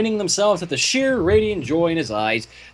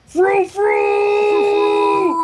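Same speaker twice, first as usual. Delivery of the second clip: high, loud sing-song mock; mock frilly voice; 6 dB louder than usual. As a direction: trill it like a fussy fashionista. Mocks Pinkie dress style.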